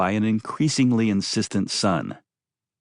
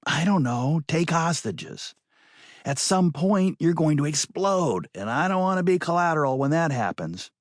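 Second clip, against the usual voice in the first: higher, lecturing woman's voice; 4 semitones higher than usual. Acted. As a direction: scold him for hidden anger.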